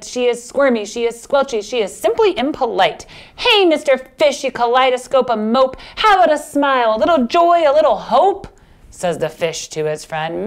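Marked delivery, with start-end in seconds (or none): 3.4-8.5 lightly voiced squid.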